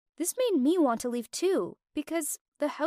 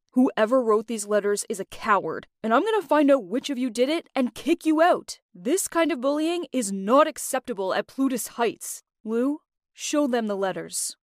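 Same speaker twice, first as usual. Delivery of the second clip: firm, raised angry voice; stern, angry; 3 dB louder than usual. Acted. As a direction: lay down the law, loudly. David confronts the group angrily.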